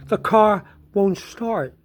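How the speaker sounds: sister's line, drawn out and measured; slow retold report. Sister breaks the news about the car, slow and measured. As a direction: slowly deliver the bad news. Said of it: "came to me and says".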